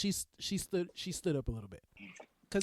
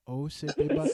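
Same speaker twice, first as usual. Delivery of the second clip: calm; 5 semitones lower than usual. Retold or imitated. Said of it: "this is how calm I was".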